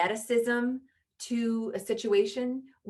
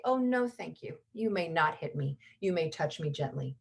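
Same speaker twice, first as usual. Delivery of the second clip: royal calm; 2 semitones lower than usual. Shown as a demonstration. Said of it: "What a royal person does is say".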